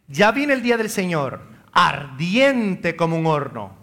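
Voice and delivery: measured scripture reading, slowing on ardiente; reading Malachi. Shown as a demonstration. Priest reading Malachi to parish, calm scripture reading. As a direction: read it plainly as the prophet wrote it. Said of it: "Sigue diciendo Malaquías".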